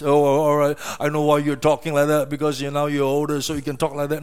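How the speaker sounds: low, quick mock concession; dismissive mimicry. Preacher mimics someone excusing an elder's talk, dismissively.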